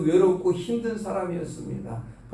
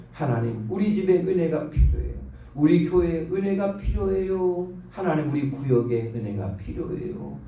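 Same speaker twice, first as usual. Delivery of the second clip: demonstrated prayer. Shown as a demonstration. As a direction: model a simple plea to God. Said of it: "기도 시간 드릴 때". (간구하는 기도 시범)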